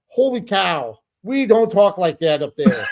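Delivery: mild imitation of a ranting Minnesota accent; Fargo Minnesota accent. Retelling a wrestler's rant at Fargo, in a light Minnesota accent. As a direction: play up the Minnesota vowels while griping. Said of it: "sounding just like one of the characters".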